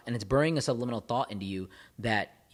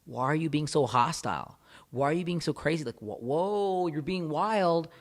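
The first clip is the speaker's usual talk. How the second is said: dismissive; 4 semitones higher, slower than usual. Retold or imitated. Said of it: "they might call you and be like".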